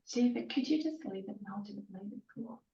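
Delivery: rushed, distracted while wrestling the cat; hurried words, hands full with the cat; holding down a pet. Real, not acted. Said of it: "we're having a little wrestle with the cat hair".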